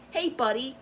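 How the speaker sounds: fake-friendly "Hey, buddy" again, rising on "Hey"; mock friendly greeting. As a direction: mimic their sugary fake hello. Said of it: "they'll dead ass say that".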